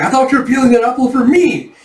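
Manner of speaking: high, loud comic protest; hammed-up petulant outrage; indignant whine. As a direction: complain like a wronged, spoiled lord. Lord indignant his apple was eaten.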